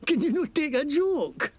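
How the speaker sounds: lightly Scottish mocking thug; Scottish accent. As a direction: sneer at them in Scots. Scottish NPC laughs it off.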